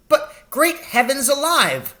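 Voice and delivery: high, loud, slow outraged shout; furious shout. A narrator's reading. Little doctor shouting in fury at the news. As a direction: explode with fury. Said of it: "the little doctor shouted".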